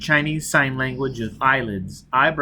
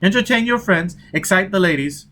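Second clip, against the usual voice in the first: a hint of a wheedling Italian hawker, higher; lightly voiced peddler; 4 semitones higher than usual. Disguised agent hawking pictures to Foyle, mild wheedling peddler voice. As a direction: sell it like a greasy street vendor.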